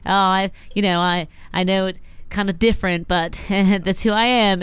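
lightly put-on Australian accent; mock Australian contestant; fake Australian accent. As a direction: chat in a dubious Australian accent. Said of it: "is that an Australian accent?".

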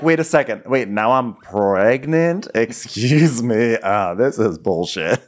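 slow, stretched-out indignation; mock disbelief. Woman learning she's pregnant, mock disbelief. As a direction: drag the words out, affronted.

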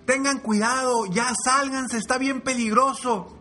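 high taunting shouts; jeering animals. Acted. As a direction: tell the frogs to give up, mocking. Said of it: "seguían gritando". (gritos burlones agudos)

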